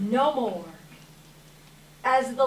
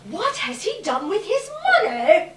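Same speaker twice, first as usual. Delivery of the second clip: laughing through the question, pitched higher; mocking laugh; 7 semitones higher, 6 dB louder than usual. Businessman sneering about the dead man's money, laughing. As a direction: scoff and chuckle as you ask.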